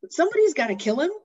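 put-on high, loud, indignant child voice; upset little boy. Boy to grandpa about Humperdinck, high whiny protest. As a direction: protest like a kid who wants justice. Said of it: "and he says".

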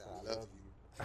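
mock-seduce a stranger; seductive voice. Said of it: "I'm about to D M her back and say".

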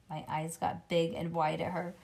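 ordinary delivery

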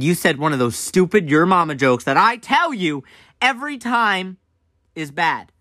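mom scolding, pitch climbing mid-sentence; mock-angry scolding with chopped-up ending; flipping out. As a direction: imitate an exasperated mom, building then dropping. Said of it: "she starts flipping out".

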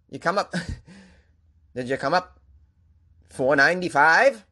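mock Maine accent, breaking into laughs. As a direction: imitate a Maine local asking about the route. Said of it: "I think Maine is terrible".

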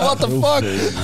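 high, drawn-out incredulous reaction; slow, high-pitched bafflement; retold disbelief. His stunned reaction, retold.

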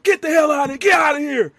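imitating Orton berating. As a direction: keep hollering after someone who is leaving. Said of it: "Randy just berating him".

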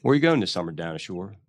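quick, casual Philly accent. Shown as a demonstration. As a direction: ask and answer like a Philly local. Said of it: "What's the Philly accent?".

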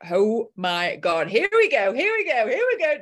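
high, loud giddy here we go; rising thrill, here we go, here we go; excited. Retold or imitated. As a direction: squeal it with nervous excitement. Excited about big investment.

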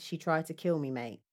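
half-hearted put-on accent; Lewis Burton. Boyfriend telling police about attack, understated accent attempt. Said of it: "let me do the accent again".

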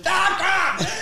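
high mock shriek of disgust; overdramatic outburst. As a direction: make a whole production of it. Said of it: "It's a production".

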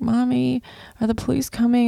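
high-pitched imitation of a young son; imitating upset child. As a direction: voice a worried little boy, pitched high. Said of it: "He just started crying and he's like".

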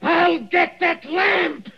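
high, slow, strained shouting; crazed shout. Acted. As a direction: shout it while staggering. Dying man staggers to the lamp.

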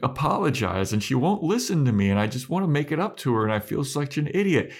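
imitated frustration. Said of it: "Xander's like".

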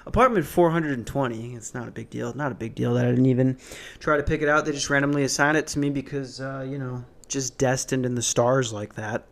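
mock-confident podcast host patter; hammed-up cockiness, played for a joke; jokey overconfident voice. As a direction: put on a jokey, overconfident swagger. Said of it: "overconfident voice".

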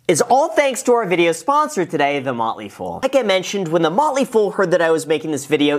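smooth, upbeat sponsor read. Acted. Host pitching the sponsor to his viewers, ad read. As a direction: sell the Motley Fool offer to viewers.

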